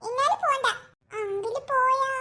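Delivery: tearful little question, voice breaking on പോയാ; child begging the uncle who is leaving, crying. Acted. Crying child asking uncle if he goes.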